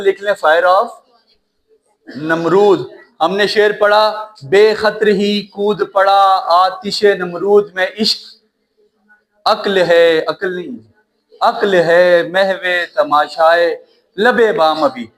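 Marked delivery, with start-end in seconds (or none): 4.4-10.2 slow, deliberate verse delivery; measured recital of a couplet; poetry recitation. Acted. 11.4-15.1 slow, deliberate verse delivery; measured recital of a couplet; poetry recitation. Acted.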